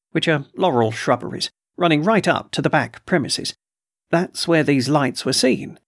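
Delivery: a hint of a put-upon colonel, complaining; gruff colonel voice. Colonel complains to the doctor about trespassers, mildly indignant.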